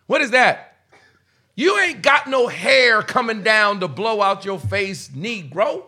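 loud, slow stern father rebuke; dad scolding. Retold or imitated. Father catches son copying a white friend, stern shout. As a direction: bark it like a dad catching his son at something foolish. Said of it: "my dad catches me and he's like".

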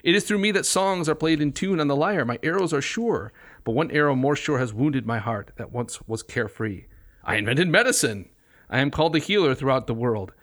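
proud, declaiming verse reading; reading a poem aloud. Acted. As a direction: announce his credentials. Reads Apollo's boasts aloud.

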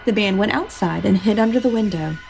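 storytelling voice, steady and unhurried; story narration. A narrator's reading. Host reading the boo hag tale aloud, storytelling voice. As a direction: tell the folk tale to the listeners.

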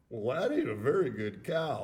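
imitating a cracking voice, laughing. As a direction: let the voice crack on the quote. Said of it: "his voice cracked a little".

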